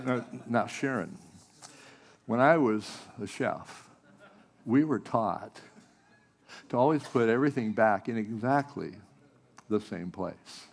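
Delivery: a lightly put-on kitchen chef lecturing; firm head-chef instruction, barely voiced; chef's voice. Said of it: "my chef's voice".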